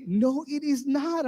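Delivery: loud, high, slow mock contradiction; arguing wife. Wife telling husband it is not funny, emphatic contradiction. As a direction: imitate a wife firmly shooting it down.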